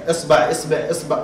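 esbaʕ, esbeħ spoken in quick variants. Shown as a demonstration. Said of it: "وأكثر من ذلك".

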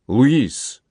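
mild, narrated cry of horror; horrified exclamation. A narrator's reading. Uncle recoiling from his guest, mildly horrified. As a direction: exclaim the name, mildly aghast. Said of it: "воскликнул в ужасе Дон Антонио".

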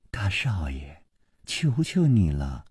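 low, softened, drawn-out plea; weary pleading. A narrator's reading. Girl begging young master for no trouble, weary pleading. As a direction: beg under your breath, slowly.

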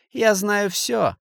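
slow, high and loud: I know everything; shouting. A narrator's reading. Kasimov shouts slowly at the banker down the phone. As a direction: bellow each word slowly down the phone. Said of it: "закричал Касимов".

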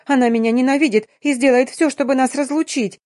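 pleading tearfully to her husband; sobbing. Acted. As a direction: cry it out to win him over. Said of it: "зарыдав, заявила".

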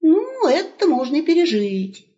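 put-on high, bright calling out to the old man; young wolf hailing grandpa; cheerful young wolf. Wolf shrugs.

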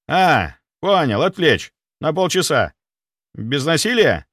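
loud, high, eager military report; zealous soldier. Acted. Security chief vowing loyalty, loud and eager. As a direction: overeager servant. Sviridov finally gets it.

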